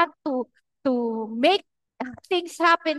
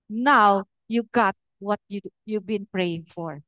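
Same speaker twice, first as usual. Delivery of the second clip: gentle voice of God; 6 semitones lower, slower than usual. Retold or imitated. God telling the mother her prayer is answered, slow and tender. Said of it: "sabi niya".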